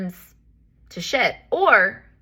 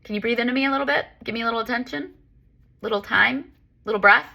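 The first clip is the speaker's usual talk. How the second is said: higher, quicker pleading voice; lightly voiced body pleading, higher and quick; body's gentle plea; 5 semitones higher than usual. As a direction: play the shoulder asking to be noticed. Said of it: "your body's trying to say".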